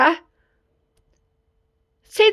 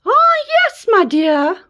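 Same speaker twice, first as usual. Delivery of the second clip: wolf as granny; 7 semitones higher, slower than usual. Acted.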